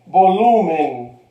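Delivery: slow "Volumen" with "lu" strong; stress on "lu". Shown as a demonstration. Teacher showing the strong syllable, slow "Volumen" stressed on "lu". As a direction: draw out and stress the middle of "Volumen". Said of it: "Sílaba fuerte, lu".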